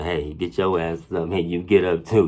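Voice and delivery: loud, slowed hey, get up; yelling wake-up call. Retold or imitated. Yelling at the sleeping friends to get up, loud. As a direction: roust the sleepers with a shout.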